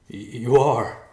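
high, loud, stammered insistence; distraught insistence. A narrator's reading. Riverpaw insists his father will live, distraught. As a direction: stumble into it, pleading.

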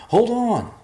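loud, high shout from below; high-pitched yell across a distance; calling out. Acted. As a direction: holler it up to them. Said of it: "Evercloud called".

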